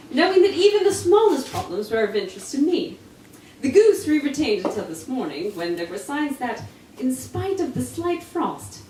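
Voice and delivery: a hint of a crisp English Holmes; lightly voiced Sherlock laying out the case; Holmes accent. Reading Holmes explaining the hat and goose to Watson, lightly English. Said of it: "All accents".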